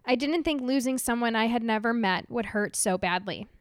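tearful letter read aloud; crying while reading. Real, not acted. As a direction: read through real tears. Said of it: "she's already sobbing".

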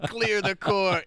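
slow, booming high courtroom command; Lincoln voice. Retold or imitated. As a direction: call it out slow like a giant. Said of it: "he's like".

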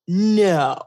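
drawn-out, incredulous no; a firm, stretched refusal to believe it; retold disbelief. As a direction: push back on an unbelievable claim. Retelling disbelief at husband's statistic.

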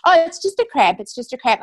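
high, loud, breezy brush-off imitating mum; lightly imitated mum waving it away as nothing; dismissive mum. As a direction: play down the worry like a mum would.

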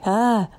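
light scared yelp; imitating her own scared yell; mild yell. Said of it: "That's basically how I sound when I yell".

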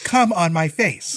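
slow mock read-out, evenly projected; loud Lana reading. Imitating Lana reading a title to a caller, slow and unembarrassed. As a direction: read it out slowly like an unbothered older clerk. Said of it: "and she was loud".

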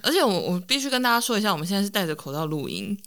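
muffled through a face mask; talking behind a face mask. Real, not acted.

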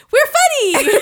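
high, loud comic catchphrase with a laugh in it; pop-up catchphrase. Acted. Comedian doing the planned intro gag, pop-up catchphrase. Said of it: "pop up from the bottom of the screen and go".

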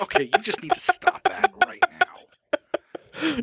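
high, slow scolding voice; Gideon voice. Retold or imitated. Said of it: "Gideon's like".

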